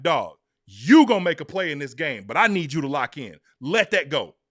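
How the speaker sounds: rally the teammate hard; firm pep talk. Retold or imitated. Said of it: "walked right over to him and was like".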